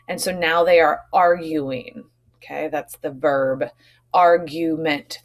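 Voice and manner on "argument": argument said slowly, AR-gu-ment in three beats; syllables shown. Shown as a demonstration. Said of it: "three syllables".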